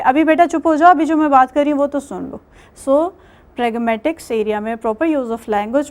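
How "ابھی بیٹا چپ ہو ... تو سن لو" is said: put-on louder, firm teacher telling a child to hush; quick, firm classroom shush; a hint of a stern teacher. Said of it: "آپ accept نہیں کریں گے".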